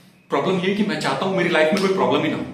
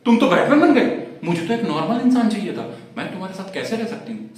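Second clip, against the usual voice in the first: higher-pitched mock girlfriend voice; complaining girlfriend; 5 semitones higher than usual. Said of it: "उस दिन बोली". (शिकायती प्रेमिका की ऊँची आवाज़ में नकल)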